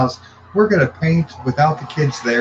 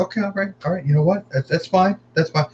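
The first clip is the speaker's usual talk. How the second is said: higher-pitched, hurried brush-off; imitating his own placating reply; retold dismissal; 6 semitones higher, faster than usual. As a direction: lightly act out waving it away. Father brushing off the daughter's claim.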